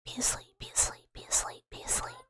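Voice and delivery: breathy hushed chant, trailing away; lulling whisper. Retold or imitated. Creature soothing a sleeping dweller with hushed whispers. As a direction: coax someone to sleep in a whisper. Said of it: "I watch you peacefully and I go".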